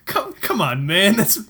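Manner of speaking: protesting Zell. Retold or imitated. Imagined Zell protesting to the player, rising mock whine.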